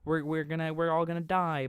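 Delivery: mock panicked wail, high and loud; panicking little boys. Little boys seeing they may be eaten, mock panic. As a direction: cry out in hammed-up alarm. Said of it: "Little boys are like".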